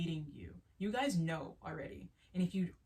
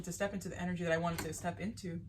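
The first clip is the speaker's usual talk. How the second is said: talking between burps; words broken by a burp; faster than usual. Real, not acted. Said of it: "I'm burping a lot".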